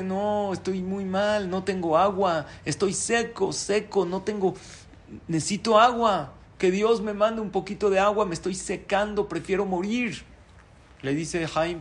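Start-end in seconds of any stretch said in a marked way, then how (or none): 0.0-10.2 high-pitched mock lament; weeping tree. Crying tree telling Jaim it is drying up, mock lament. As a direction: plead and moan like a thirsty tree. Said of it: "Un árbol llorando".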